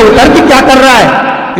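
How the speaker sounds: high, loud, slow demand; annoyed aunt. Acted. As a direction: drag out the angry question. Aunt demands boy get off.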